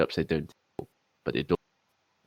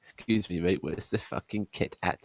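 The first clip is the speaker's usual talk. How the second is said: mock English accent, softly polite; British accent; 2 semitones higher, 4 dB quieter than usual. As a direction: put on a courteous English accent for a joke. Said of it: "here's my British accent".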